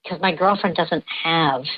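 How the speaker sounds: electronically disguised voice; voice changer. Real, not acted. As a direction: speak through a voice changer. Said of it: "even with the voice changer".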